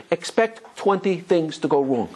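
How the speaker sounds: slow advice. Retold or imitated. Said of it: "The person said".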